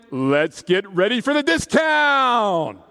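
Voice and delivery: high, drawn-out arena-style announcement; mock hype shout. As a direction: stretch the last word into a hammed-up yell. Sleep-talk shouted like an announcer.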